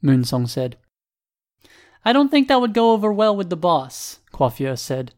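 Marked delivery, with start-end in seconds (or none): 2.0-4.2 said with a smile, high-pitched; high voice sliding down, smiling. A narrator's reading. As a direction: let a smile into a raised voice.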